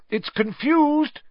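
high, slow call to the class. A narrator's reading. Professor telling class the boggart is muddled, shouting. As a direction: call it out high over the commotion. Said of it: "shouted Lupin".

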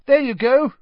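high, loud, gleeful shout; happy yell. A narrator's reading. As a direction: yell it out with joy. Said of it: "Ron yelled happily".

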